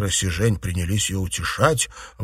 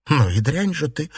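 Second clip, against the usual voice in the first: indignant exclamation; 6 semitones higher than usual. A narrator's reading. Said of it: "воскликнула Юань-Ян".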